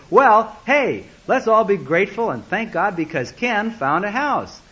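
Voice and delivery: high, loud start, rallying the room; hearty invitation to celebrate; upbeat group leader. Retold or imitated. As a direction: play a cheerful leader rallying everyone. Acts study leader rallying the group.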